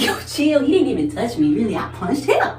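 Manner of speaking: mock chill self. Telling her brother to calm down, high and breezy. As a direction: wave him off lightly. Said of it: "I'm like".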